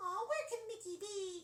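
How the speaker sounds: very high-pitched cartoon mouse character voice. Comparing two cartoon voices, first Minnie's line: Minnie Mouse voice. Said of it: "Minnie's more like".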